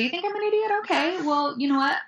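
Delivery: unfazed comeback, starting high and settling; super calm. Acted. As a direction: calmly shrug off the insult. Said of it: "I say super calm".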